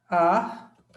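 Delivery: "Artista" split as "ar", "tis", "ta" with long pauses; syllable by syllable. Shown as a demonstration. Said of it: "Vamos fazer a separação silábica".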